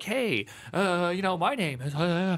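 lightly mocked, mumbling video intro; rambling intro. Streamer mocking slow YouTube intros, lightly imitated rambling. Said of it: "an intro like".

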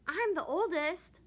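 loud, high I'm the oldest; bossy claim. Acted. Kitten Spotty grabbing the egg, bossy and loud. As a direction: pull rank on the sisters. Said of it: "Spotty said, grabbing for the egg".

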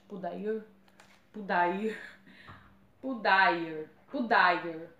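repeated tries at Pudair; unsure pronunciation. Real, not acted. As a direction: sound out Pudair as "poo-DYE-er", testing it. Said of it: "Não sei como fala isso".

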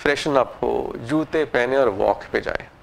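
slow, lazy, half-asleep grumble; lazy reluctance. Retold or imitated. Sleepy self in bed, not wanting to walk, lazy mumble. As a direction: drag it out like you don't want to get up. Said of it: "और आप सोचते हैं कि".

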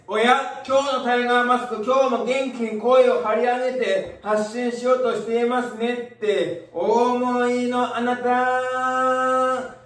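teasing opener, last word drawn out long; playful announcer address. Pretend. Host voicing the viewer's thought back at them, playful sing-song.

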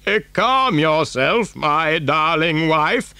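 put-on slow old grandfather's voice; soothing Grandpa Joe. Grandfather calming his frightened wife, slow and soothing. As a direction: settle her down, drawing the words out.

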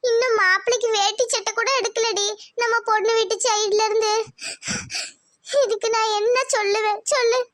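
fretting mother. Acted. Mother grumbling to daughter about in-laws, fretting. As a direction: vent your worry about the wedding.

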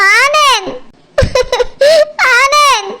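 weepy, sobbing appeal; tearful calling. Acted. Mother calling her son, tearfully. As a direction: call the son's name through sobs.

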